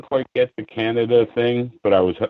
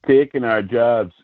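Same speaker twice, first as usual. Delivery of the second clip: slow, lightly attempted Canadian accent; 2 semitones higher, slower than usual. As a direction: try and fail at a Canadian accent. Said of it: "I can't get a Canadian accent".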